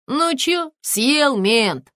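high, loud triumphant jeer; gloating. A narrator's reading. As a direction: crow over the cop. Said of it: "возликовал гопник". (злорадно-ликующе)

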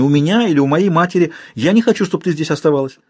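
high, rising, upset tirade; angry outburst. A narrator's reading. Olga turning on Frida, high angry outburst. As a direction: fling it at her friend, voice climbing. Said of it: "вскричала графиня".

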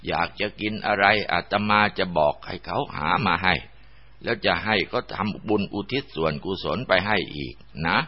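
mildly softened monk's coaxing; gentle persuasion. Acted. Monk coaxing a dead man's spirit to leave, gently persuasive. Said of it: "หลวงพ่อก็กล่าวกับวิญญาณนายอ่อนโดยดี".

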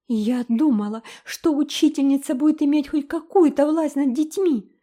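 sting her with a bitter jab. A narrator's reading. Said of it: "с горечью проронила".

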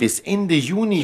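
viel höher, laut und gedehnt; fassungslos. Acted. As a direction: die Empörung langsam ausspielen. Ungläubige Rückfrage zum Spielplan. (laute, fassungslose Rückfrage an den Partner)

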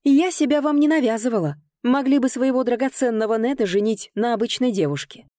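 high, heated retort; indignant. A narrator's reading. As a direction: throw it back with offended pride. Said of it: "возмущение заклокотало в груди". (возмущённо, на повышенном тоне)

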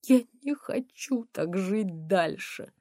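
slow whispered despair; quiet weeping whisper. Acted. Mother whispering to her daughter, weeping quietly. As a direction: whisper it through tears. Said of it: "тихо плача".

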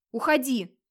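understated yell; angry shout. Acted. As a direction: drive her out of the room. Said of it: "кричал он".

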